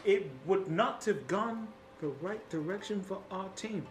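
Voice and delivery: self-important hero addressing the team in grand phrases; boastful artificer. Acted. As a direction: brag theatrically about your part in the victory. Louis brags to his team.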